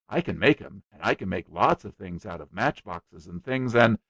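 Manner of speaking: put-on boy bragging to a guest, eager; eager small boy. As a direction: rattle on like a boastful little boy.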